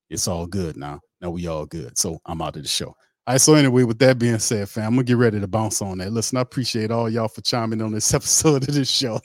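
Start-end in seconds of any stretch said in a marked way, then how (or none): 3.3-9.2 loud, higher outro to the fans; excited sign-off. Real, not acted. Host thanking fans at the end, loud and excited. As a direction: pump them up on the way out.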